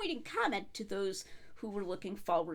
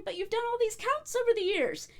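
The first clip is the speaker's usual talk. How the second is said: bursting out; 11 semitones higher, 4 dB louder than usual. Retold or imitated. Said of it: "Lucano bursts out".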